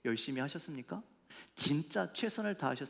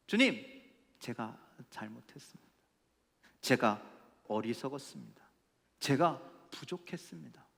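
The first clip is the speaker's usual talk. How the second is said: acted contrite confession. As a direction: confess humbly to God, pausing between admissions. Models a confession to God.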